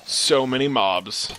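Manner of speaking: slow "so many mobs"; overwhelmed exclamation. Real, not acted. Player facing too many mobs, slowly dismayed. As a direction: stretch the words in dismay.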